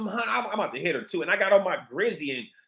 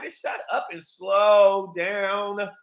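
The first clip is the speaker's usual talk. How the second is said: retold snap; much slower than usual. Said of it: "I'm like".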